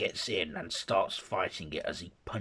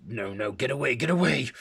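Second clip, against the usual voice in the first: panicked plea; 6 semitones higher, 7 dB louder, faster than usual. Acted. Jekyll panics, pleading to be left.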